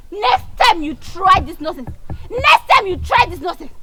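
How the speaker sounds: angry threat. Acted. Friends quarreling after slap.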